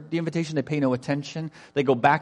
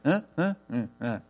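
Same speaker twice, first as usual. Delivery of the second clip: short mock grunts of not caring; indifferent grunts; 2 semitones lower than usual. Preacher imitates invited guests who don't care, apathetic grunts. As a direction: shrug it off in little wordless noises. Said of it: "They just don't care".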